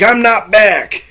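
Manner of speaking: high, drawn-out mock protest; emphatic denial. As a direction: stretch it out in insistent objection, imitating him. Bill refuses the welcome back.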